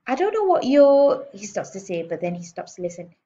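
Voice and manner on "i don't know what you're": much louder, higher angry start; furious manager on the phone. A narrator's reading. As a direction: bark into the phone.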